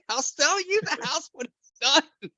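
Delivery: put-on high, slow childish pleading; pleading baby talk. Narrator offering to sell the dog the house, slow high childish voice. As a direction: coax the dog with a sweet, drawn-out offer.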